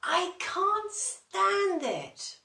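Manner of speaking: slow, high, loud despairing whine; fed-up complaint. Acted. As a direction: wail it out, he's getting very tired. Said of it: "said Mister Bear".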